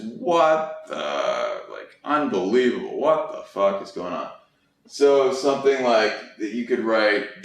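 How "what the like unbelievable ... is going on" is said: low incredulous muttering. Shown as a demonstration. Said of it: "you know, just".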